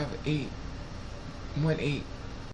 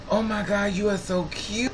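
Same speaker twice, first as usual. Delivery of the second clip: put-on gushing baby talk; 5 semitones higher than usual. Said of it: "I'm like".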